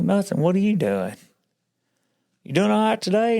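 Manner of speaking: high-pitched quoted small talk; high, swooping questions; phone banter. Retold or imitated. Acting out uneasy phone exchange.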